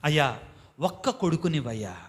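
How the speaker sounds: low, softly voiced plea to God; hushed, low imitation of a praying woman; humble plea. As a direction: lightly act out a mother's quiet begging. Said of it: "ఒకే ఒక కోరిక కోరిందండి".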